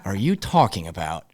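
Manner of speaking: asked through a laugh; a coach laughing at a player's excuse; laughing disbelief. Retold or imitated. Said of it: "And I was like".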